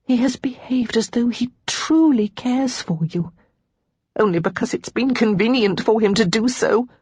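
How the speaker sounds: high, shaking, half-whispered reply; a wavering, hurt answer; shakily. Acted. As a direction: let the voice tremble. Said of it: "before replying shakily".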